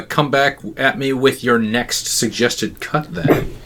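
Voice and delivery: slow, drawn-out mock challenge; odd put-on delivery. Host asking co-host for the next cut, odd put-on delivery. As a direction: stretch it out in a playfully odd way. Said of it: "I don't know why I'm talking like this".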